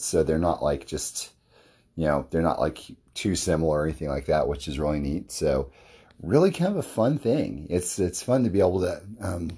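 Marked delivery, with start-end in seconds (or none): 6.2-9.5 losing your voice mid-sentence; voice giving out. Real, not acted. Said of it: "I was kinda losing my voice there".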